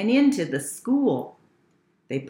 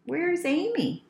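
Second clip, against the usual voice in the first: brother; 8 semitones higher, 4 dB quieter than usual. A narrator's reading. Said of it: "said her brother".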